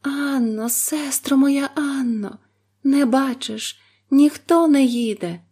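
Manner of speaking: high, drawn-out call; quiet anxious plea. A narrator's reading. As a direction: ask anxiously under her breath. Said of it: "тихесенько спитала".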